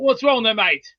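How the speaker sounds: put-on Australian accent; Aussie accent. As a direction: try on a casual Australian accent. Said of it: "Aussie accent I've heard from Beast".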